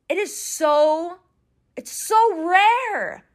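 high, slow, voice catching with emotion; choked up. Real, not acted. To listeners about a rare love, high and near tears. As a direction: near tears, drawing out each word. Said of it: "this is me being a little emotional".

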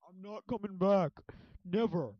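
loud, high, slow mock outburst; defiant refusal. Retired agent refusing to return, defiant. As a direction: refuse loudly, drawing out each word.

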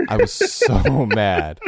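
laughing through the words, slowed; slow, giggling repeat. Real, not acted.

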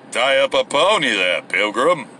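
low, lazy Western cowboy voice. Acted.

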